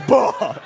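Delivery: loud sudden mock burp; imitated burp. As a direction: let a fake burp burst out. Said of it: "like, a burp".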